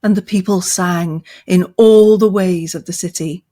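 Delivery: steady, measured epic reading; story narration. A narrator's reading. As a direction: tell it like an old chronicle. Reads Tolkien passage aloud.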